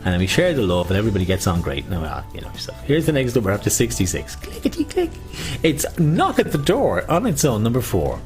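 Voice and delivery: sing-song bingo call; bingo caller. Acted. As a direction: call the numbers out. Calling bingo numbers.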